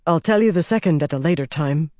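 lightly winded voice; a little breathless. Acted. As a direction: speak while still slightly out of breath. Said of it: "Bryn still sounded a little breathless".

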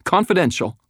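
high, rattled squeak; frightened woman. A narrator's reading. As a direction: blurt it out nervously in a high voice. Same frightened woman finishes her stammer.

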